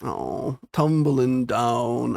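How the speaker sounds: "tumbling down" said very slow, trying to go deep; dragged-out "tumbling down" attempting a low boom; deep dramatic voice. Shown as a demonstration. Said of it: "I can't go low enough 'cause I got a baby voice".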